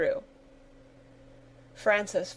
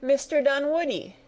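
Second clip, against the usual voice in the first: higher, startled exclamation; surprised cry; 7 semitones higher than usual. Acted. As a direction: call out his name in surprise. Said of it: "cried Sarah in surprise".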